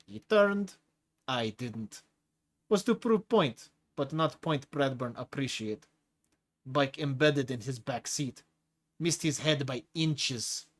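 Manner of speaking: a big brute's broken-English drawl, amused; lightly voiced hulking prisoner with a foreign accent; a menacing brute enjoying scaring the new chief; Tigra's heavy accent. Tigra relishes the story.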